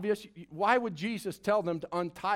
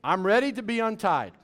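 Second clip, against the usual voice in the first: spoken in faith; 4 semitones higher, 6 dB louder than usual. Shown as a demonstration. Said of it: "Just speak it in faith".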